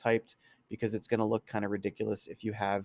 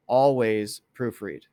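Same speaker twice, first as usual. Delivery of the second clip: dictating in all caps; 7 dB louder, slower than usual. Shown as a demonstration. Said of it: "All caps".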